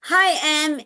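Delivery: high singsong hello to parents; lilting, friendly greeting; modeled greeting. Retold or imitated. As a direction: re-enact greeting a family for a child. Re-enacts greeting the little boy.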